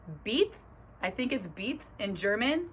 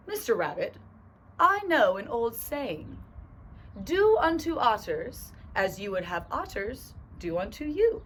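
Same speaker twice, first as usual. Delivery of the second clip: lightly put-on owl voice, indefinite accent; owl with vague accent; 3 semitones higher than usual. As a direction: recite the old saying as a storybook owl. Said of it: "what kind of accent thing I'm doing".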